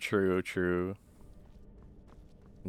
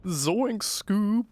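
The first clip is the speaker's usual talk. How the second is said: high-pitched goofy cartoon chuckle and yelp; hammed-up zany cartoon catchphrases; cartoon impression; 10 semitones higher, much slower than usual.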